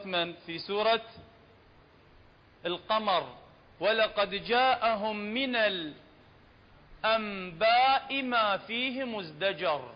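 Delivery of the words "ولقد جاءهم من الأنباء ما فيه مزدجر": Quran recitation. Shown as a demonstration. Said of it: "recites verse for class".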